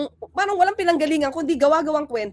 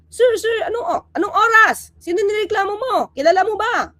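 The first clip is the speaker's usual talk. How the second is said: higher and a bit louder mock interrogation; acted officer questioning; 5 semitones higher, 3 dB louder than usual. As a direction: press her with questions like a cop. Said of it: "kunyari, ako yun". (pulis na mabilis mag-usisa)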